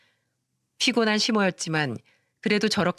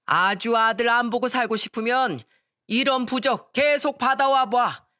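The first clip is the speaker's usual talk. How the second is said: 호통치는 시아버지; 4 semitones higher than usual. Acted. 시부가 아내에게 호통.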